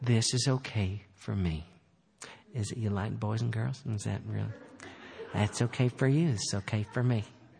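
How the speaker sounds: fake children's show host voice. Mocking how people say this is okay for them: Mr. Rogers voice. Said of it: "they always say it just like Mr. Rogers".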